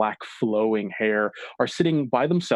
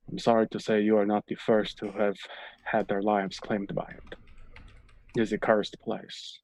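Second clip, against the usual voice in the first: Ismark, softer and grave; sombre local; 4 dB quieter than usual. Acted. Ismark telling Shava her friends are lost, soft and grave. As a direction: break the bad news gently and gravely. GM voices Ismark, grim news.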